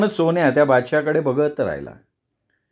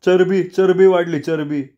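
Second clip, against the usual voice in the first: admiring exclamation; 5 semitones higher, 3 dB louder than usual. Acted. Sonya admiring the rooster.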